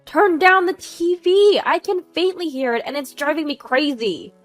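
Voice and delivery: high outburst, loud at first; exasperated complaint. Acted. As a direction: burst out, then keep griping. Neighbor complaining over the phone.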